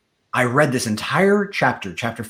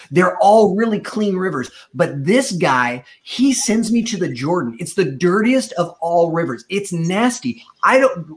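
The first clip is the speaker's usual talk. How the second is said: Naaman's higher, huffy complaint about the dirty river; an offended soldier griping, pitched up; indignant Naaman; 5 semitones higher than usual. Acted. Preacher voicing angry Naaman griping about the Jordan, indignant and higher. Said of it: "Naaman went away angry".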